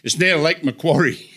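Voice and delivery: put-on unconvincing Australian accent; attempted Australian accent. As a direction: deliver it as a bad Australian punchline. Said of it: "Why is Australian the one accent you can't do?".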